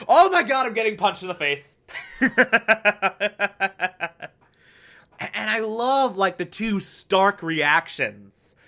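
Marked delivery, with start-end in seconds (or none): 0.1-1.8 stunned exclamation; shocked outburst. Real, not acted. Reacting to shocking scene. 1.9-4.3 short real laugh; amused laugh; burst of laughter. Real, not acted. Laugh after reaction.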